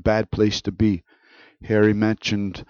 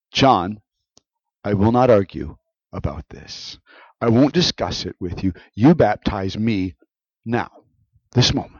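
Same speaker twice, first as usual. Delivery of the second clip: firm, measured command with deliberate pauses; mildly forceful insistence. Acted. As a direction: insist without raising the voice. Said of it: "being a bit forceful and insisting".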